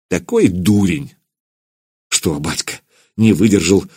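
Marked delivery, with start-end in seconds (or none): 2.1-2.8 embarrassed. A narrator's reading. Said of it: "смутился воевода".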